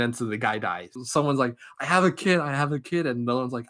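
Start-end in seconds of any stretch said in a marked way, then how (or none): 1.8-3.1 higher-pitched, imitated panicked begging; hammed-up plea, quickly repeated; mock screeching plea. Retold captive begs to be spared, mock panic. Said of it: "They all start screeching".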